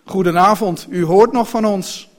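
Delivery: loud, emphatic indignant coachman; really angry. A narrator's reading. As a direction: slam out each phrase in anger. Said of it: "werd nu echt boos". (luid, nadrukkelijk en echt boos)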